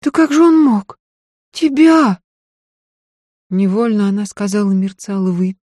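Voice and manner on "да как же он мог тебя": возмущённо, высоко и громко; не верит, что он посмел; потрясение. A narrator's reading. Потрясение при виде крови. (Софья в потрясении)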